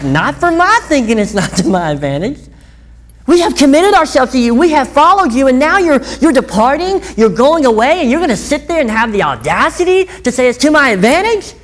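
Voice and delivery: indignant disciple shouting his protest at Jesus. Retold or imitated. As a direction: protest it like a wronged follower. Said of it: "that would be my protest".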